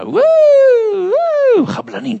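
high wailing siren noise; rising and falling wail; imitated police siren. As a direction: mimic a police car arriving. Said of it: "פתאום משטרה".

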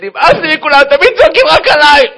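high, loud aggrieved wail; hammed-up childish outburst; child's tantrum. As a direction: yell like a fed-up little boy. Yelled-at child slams door.

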